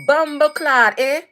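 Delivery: mock Toronto accent; Toronto accent attempt. Shown as a demonstration. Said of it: "Somebody said Toronto accent".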